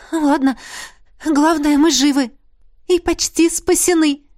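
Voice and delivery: high, brightening relief; merry, rising optimism; unexpectedly cheerful. A narrator's reading. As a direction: cheer yourself up, lifting as you go. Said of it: "неожиданно весело добавила королева".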